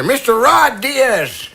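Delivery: slow, lightly voiced old grandpa; very old man. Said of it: "I got back to my grandpa voice here".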